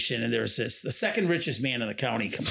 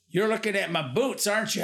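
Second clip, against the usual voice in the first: higher-pitched imitation of a Southern farmer; Southern accent; 5 semitones higher than usual. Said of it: "he does talk in a Southern accent".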